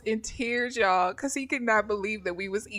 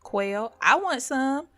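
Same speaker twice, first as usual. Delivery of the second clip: put-on a touch higher kid begging; lightly voiced kids; 4 semitones higher than usual. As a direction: nag for food. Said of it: "they hanging all off".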